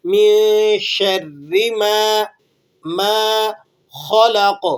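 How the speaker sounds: ما held long for one alif; stretched alif. Shown as a demonstration. Teacher shows the long alif to students. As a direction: draw out ما slowly. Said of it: "اس لیے ہم اسے کھینچ رہے ہیں".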